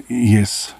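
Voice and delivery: scared narrator forces an answer to the creature, tense; forced out. Acted. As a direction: force the word past your fear. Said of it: "I forced myself to say".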